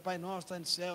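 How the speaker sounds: lightly imitated children echoing the prayer; children repeating prayer. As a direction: repeat it back dutifully, as kids do. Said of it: "elas repetem".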